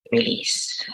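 breathy, whispered exhale cue; whispered release. Acted. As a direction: breathe out the word Release softly.

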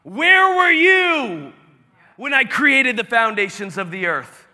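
booming God voice. Retold or imitated. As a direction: challenge Job like a thunderous God. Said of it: "he goes up to me and says".

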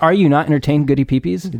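hammed-up arena roar. Repeated louder, sillier.

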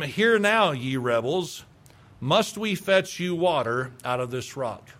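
fairly kind tone. Shown as a demonstration. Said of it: "I just read that in a fairly kind tone".

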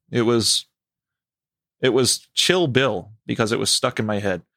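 measured first-person storytelling; story narration. A narrator's reading. Host reading a camper's story to co-host, measured narration. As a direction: read it like a campfire tale. Reads a camping story aloud.

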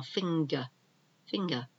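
"finger" said twice, the final R dropped, ending on a soft vowel. Shown as a demonstration. Teacher modelling "finger" for learners, no final R. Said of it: "We don't pronounce the R".

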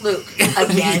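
weary Luke again. Retold or imitated. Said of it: "he's like".

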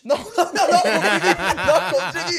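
loud, high, laughing no no; laughing protest. Real, not acted. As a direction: protest while cracking up.

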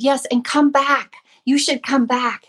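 warmly urging, slightly lifted voice; welcoming. Retold or imitated. Gym lady inviting a newcomer back, welcoming. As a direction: retell a kind invitation to return. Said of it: "she was so welcoming and kind".

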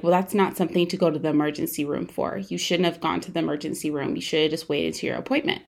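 brisk, matter-of-fact imitated reprimand; mildly stern retelling of a doctor scolding a patient; stern doctor, retold. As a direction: quote the doctor's telling-off quickly, understated. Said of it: "her sternness".

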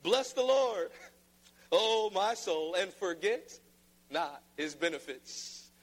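mildly dragged, fading parody; a hint of a bored preacher dozing off; mock drowsy reading. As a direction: let it sag and trail off. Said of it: "Wait for it".

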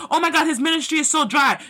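quick, snide mimicry of a gossiping neighbour; lightly mocked gossip voice; mocking gossip. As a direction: rattle it off like a nosy busybody. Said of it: "people who may be mocking you".

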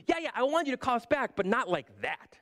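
mildly angry protest, starting high; indignant. Retold or imitated. Habakkuk objecting to God's plan, indignant. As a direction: push back with a touch of indignation. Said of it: "indignant. He's angry".

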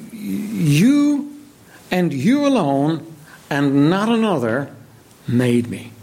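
a slow, stressed You and you alone; emphatic you. Retold or imitated. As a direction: press each You as David's claim. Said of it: "David says to God".

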